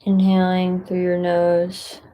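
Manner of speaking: calm, unhurried guidance with long pauses; guided meditation. Acted. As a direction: gently guide listeners into stillness, leaving space between phrases.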